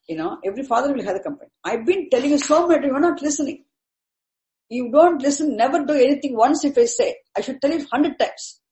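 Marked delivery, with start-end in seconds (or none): 1.6-8.6 higher, nagging parent voice, lightly done; a hint of a fed-up mother scolding; exasperated parent. Teacher imitating a parent complaining the child never listens, mild nagging.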